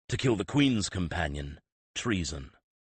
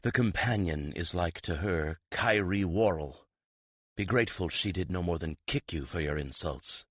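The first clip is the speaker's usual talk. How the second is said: stern Alberich. Acted. Alberich berates the prince.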